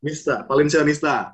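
"Nista, Valencianista" stressing the -nista ending; correcting pronunciation. Shown as a demonstration.

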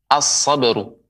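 "as-sabru" with l silent and s doubled; merged article. Shown as a demonstration. Quran teacher models the letter sad, merged article. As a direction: lean on the s in "as-sabru". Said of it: "Ya, melebur".

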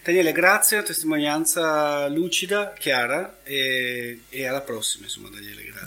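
hoarse, voice almost gone; losing his voice, raspy; raspy whisper. Real, not acted. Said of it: "ho perso la voce".

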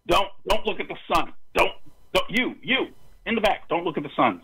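put-on high, quick warning to children; calling out to kids. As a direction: call out to the kids, high and hurried.

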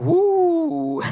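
a sudden astonished gasp of a huh; surprised huh. Retold or imitated. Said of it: "Und ich gucke so". (überraschtes, hohes Huh)

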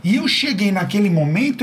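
ordinary delivery

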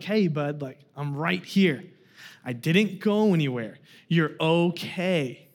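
put-on soft reassuring words to a panicking toddler; reassuring dad. Father reassuring scared son in pool.

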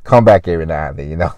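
normal talking voice

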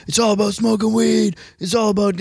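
mocking a straight edge guy. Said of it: "And he's like".

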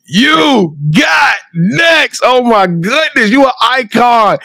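high, slow, choked-up shout; emotional shout. Real, not acted. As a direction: cry it out with emotion. Emotional tribute to the coach.

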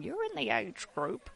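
a hint of fussy grandmother; nana. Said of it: "I sound like a nana saying".

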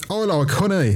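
high toy-bear voice; talking Winnie the Pooh. Retold or imitated. Bear doll speaks at night, imitated high toy voice. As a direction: imitate the doll's recorded phrase. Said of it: "And then I hear it again".

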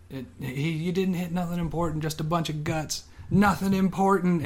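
high, hammed-up prospector cackle-yell; mock cowboy yell. Old prospector shouting at his dead attacker, mock yell. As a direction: yell it like a gut-shot old miner laughing it off. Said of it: "then he starts screaming".

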